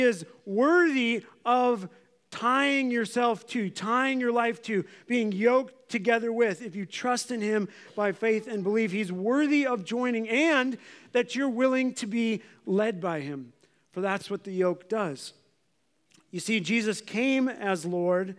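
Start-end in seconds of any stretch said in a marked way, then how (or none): none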